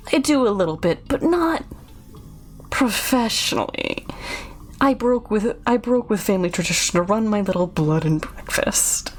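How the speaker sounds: lightly voiced odd host with halting pauses; a hint of sinister coyness; creepy innkeeper. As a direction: confide haltingly, like an eccentric host. Voices Chuck about his trade.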